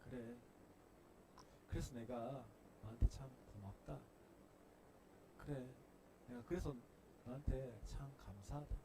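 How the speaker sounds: softly thankful father; tender. Pretend. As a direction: soothe a hurting child. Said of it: "우리 하나님 그렇게 말씀하십니다".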